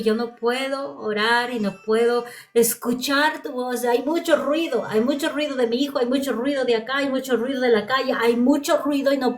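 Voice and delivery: retold anguished prayer; retold tearful plea. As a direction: plead in rising, repeated waves of frustration. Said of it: "estaba llorando y dije".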